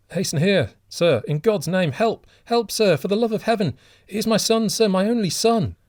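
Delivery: high, loud, desperate cry for help; frantic plea. A narrator's reading. Old father begging a stranger to save his son, frantic high cry. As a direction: plead wildly for a drowning son. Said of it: "said the old man frantically".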